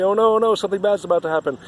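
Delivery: high, loud panicked cry of a frightened sorcerer; scared sorcerer. Retold or imitated. Sorcerer who sees us through the veil, panicking loudly. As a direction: squeal it out as if something terrible is coming. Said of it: "sometimes they become very afraid".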